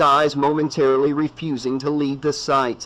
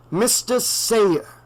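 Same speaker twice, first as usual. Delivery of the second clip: a slow, raised, ominous doctor's voice; grim old doctor; 8 semitones higher, much slower than usual. A narrator's reading. Loomis warns the sheriff, slow and ominous. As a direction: warn him gravely and slowly.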